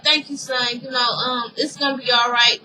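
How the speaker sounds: quietly reassure, playing a father to his son; retold reassurance. Lucius thanking his son, softly reassuring.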